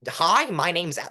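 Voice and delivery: lightly put-on stiff speech voice; mock moxie voice. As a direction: poke fun at a stiff speech opener. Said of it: "without sounding like".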